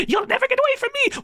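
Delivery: very high, creepy goblin threat; menacing goblin taunt. Acted. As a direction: taunt him like a goblin that will haunt him forever. Goblin taunts sleeping hero.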